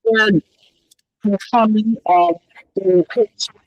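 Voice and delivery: muffled remote call audio. Real, not acted. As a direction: voice through a bad connection. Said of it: "now you sound muffled on our end too".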